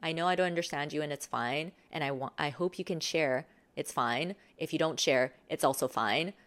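calm coach showing a nonchalant reply. Shown as a demonstration. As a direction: say it like it really doesn't matter. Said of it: "You're nonchalant in a way where it's like".

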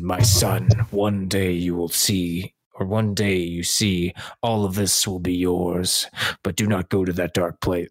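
a gravelly Batman-ish Mufasa; James Earl Jones voice. Retold or imitated. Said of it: "with his booming voice".

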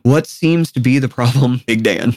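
low, unbothered mock-calm; a hint of serene calm; calm as a cow. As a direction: play it serenely innocent to an angry man. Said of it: "calm as a Hindu cow".

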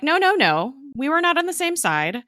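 imitating an indignant Fitz; mock angry protest. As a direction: push back hard and high. Fitz angrily refusing blame.

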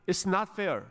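Jonah's acted complaint, rising at the end; protesting to God. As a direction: argue your case with God, drawing out the English. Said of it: "하나님께 항의하면서, 따지면서 기도하는". (하나님께 항의하며 따지는 투)

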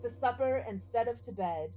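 measured, rhythmic reading of a spooky ballad; poem recitation. Acted. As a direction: recite it like a ghost story by the fire. Reads spooky Halloween poem aloud.

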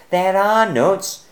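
high, loud, slow desperate exclaim. Acted. Bruce watching the bird take the cone, high excited exclaim. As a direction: cry out in dismay over the lost nuts. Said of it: "exclaimed Bruce".

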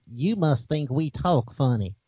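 slow, drawn-out Kentucky accent imitation; a hint of a Southern accent; mock Southern drawl. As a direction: lightly mimic a Kentucky local, slow. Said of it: "and this was a quote".

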